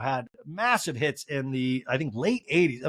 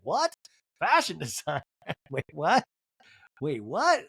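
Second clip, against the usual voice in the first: baffled, questioning with a laugh; pause, then question it in disbelief; retold disbelief; slower than usual. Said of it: "I was like".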